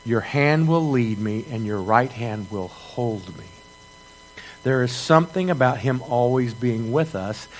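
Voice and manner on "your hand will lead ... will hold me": slow and soft, each word weighed; preacher having the church memorize the verse, slow and soft; slow, deliberate recital. Shown as a demonstration. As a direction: recite it slowly so it sticks. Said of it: "I want you to remember that verse".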